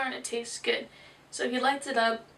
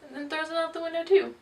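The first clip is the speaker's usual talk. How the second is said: ordinary talk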